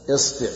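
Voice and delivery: إصبع with an i on the hamza and on the ba; variant pronunciation isbi'. Shown as a demonstration. Teacher shows students the variants, إصبع said "isbi'". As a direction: say إصبع as "isbi'", i in both syllables. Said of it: "أي وجه تقرأه ما تغلط".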